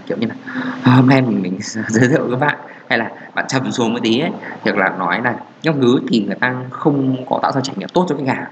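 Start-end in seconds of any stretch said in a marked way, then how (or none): 0.8-2.6 mock-gentle presenter, breaking into a laugh; playfully faked gentle introduction; overly gentle intro. Shown as a demonstration. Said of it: "mình cực kỳ nhẹ nhàng".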